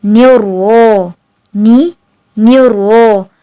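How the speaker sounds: न्यूरो drawn out slowly; slow drilled syllables. Shown as a demonstration. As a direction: stretch न्यूरो. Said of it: "तो बिल्कुल वही". (न्यूरो धीरे खींचकर)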